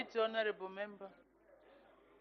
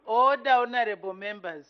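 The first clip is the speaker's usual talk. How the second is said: shouting order order; 7 dB louder than usual. Real, not acted. Speaker calls House to order.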